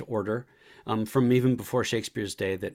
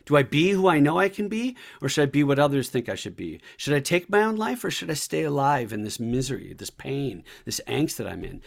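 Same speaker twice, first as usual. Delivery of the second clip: begging strangers for an answer, then fading into the misery; anguished Hamlet; 4 semitones higher, 4 dB louder than usual. Acted. Hamlet asking strangers whether to live, pleading then fading. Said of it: "He's asking strangers in the room".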